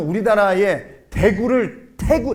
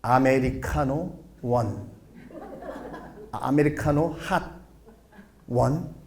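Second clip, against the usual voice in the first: slow, softer, careful "아메리카노 원"; mock clumsy ordering; 5 semitones lower, 6 dB quieter, slower than usual. Comedian friend orders coffee in America, slow and careful. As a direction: spell out the order slowly like a nervous tourist. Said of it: "아메리카노를 시키려고".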